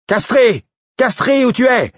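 beugler très fort, voix haute; beuglement. A narrator's reading. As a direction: appeler son équipier au loin. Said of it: "beugla le garde". (garde qui beugle)

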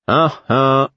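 warning tone. A narrator's reading. Prince warns his servant at the door, mock stern. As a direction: caution him with a pointed hum. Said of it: "sur le ton de la mise en garde".

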